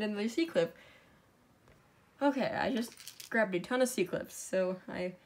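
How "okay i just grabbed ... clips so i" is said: winded after running upstairs; out of breath, catching air between words. Real, not acted. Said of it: "I'm out of breath".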